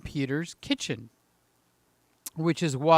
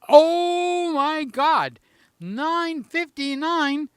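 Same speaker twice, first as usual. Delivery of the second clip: slow, much higher, louder alarmed cry; retold panic; 8 semitones higher, 4 dB louder, much slower than usual. Host retells seeing the clock at nine fifty-nine, higher and alarmed. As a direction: gasp at the clock in mock horror. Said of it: "it said".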